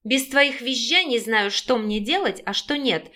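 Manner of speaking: usual speaking voice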